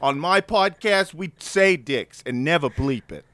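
put-on a light stab at a Boston accent; barely-there Boston accent. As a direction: do your best Boston guy, loosely. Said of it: "That's my best, uh, Boston accent".

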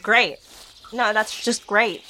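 slow, dry sarcastic line. Acted. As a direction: drawl it out, fed up. Sarcastic complaint.

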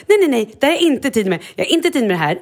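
hög, jäktad protest som tappar luften; stressad protest. Retold or imitated. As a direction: kasta ut nej-orden i panik. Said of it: "jag blev så stressad". (stressat nej, nej, nej)

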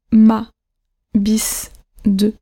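one-syllable words dropping like full stops; falling final accent. Shown as a demonstration. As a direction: say MA, BIS, DE each with a neutral falling tone. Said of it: "La fin du mot descend".

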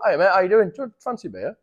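upbeat, chatty hello, fading at the end; friendly greeting. Shown as a demonstration. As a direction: greet a stranger like a mate. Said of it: "just go".

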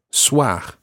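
soir ending in a French throat R; soir with guttural R. Shown as a demonstration. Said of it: "a guttural R at the end".

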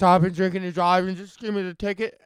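quick, punchy mock Newfoundland accent; bad Newfie accent. Drunk driver asking police for a ticket, bad Newfie accent. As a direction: put on a rough Newfie accent. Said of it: "that's a pretty bad Newfie accent".

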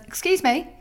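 indignant complaint. Retold or imitated. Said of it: "and says".

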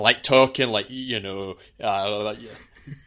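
generic Scottish, sliding towards Yorkshire; rough-and-ready mock Scottish accent; throwaway generic Scottish accent. Shown as a demonstration. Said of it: "I can do a Scottish accent".

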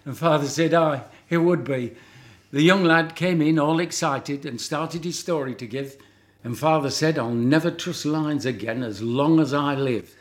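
Lancashire comic verse told with relish; comic monologue recital. Acted. Reciting to chat show hosts, music-hall style.

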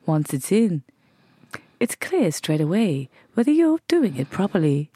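slow stiff robotic ad read; voiceover voice. Pretend. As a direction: read it like a stilted commercial voiceover. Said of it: "Why have you done that weird robot voice".

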